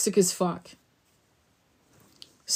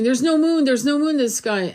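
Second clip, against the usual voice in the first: higher, louder mock panic; mock alarm; 5 semitones higher, 3 dB louder than usual. Mocking people claiming the moon is gone, mock alarm. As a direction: imitate frightened posters. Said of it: "people were saying".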